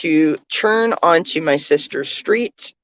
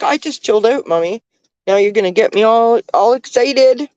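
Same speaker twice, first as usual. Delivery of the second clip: higher, lightly voiced dog talking to mommy; voicing the dog; 5 semitones higher than usual. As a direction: speak for the puppy, a little excited. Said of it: "She's like".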